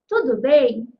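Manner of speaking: "Tudo bem?" asked loudly as a question; question intonation. Shown as a demonstration. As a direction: make "Tudo bem?" a clear, punched question. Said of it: "Se eu quero fazer uma pergunta".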